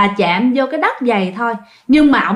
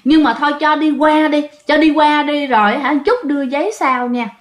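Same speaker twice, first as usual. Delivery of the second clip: pleading ex-husband; 3 semitones higher than usual. Retold or imitated. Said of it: "nhảy vô nói rằng á là".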